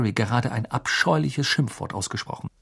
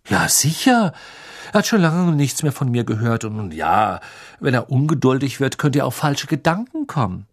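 smug sly threat; 3 semitones higher, 3 dB louder than usual. Acted. Harry droht sanft mit Sirius.

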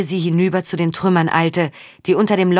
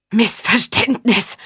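slow, gasping echo of Missverständnis; pinned down, gasping the word Missverständnis; gasped; 5 semitones higher, slower than usual. Acted. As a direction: gasp out Missverständnis with no breath. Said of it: "japste Faun".

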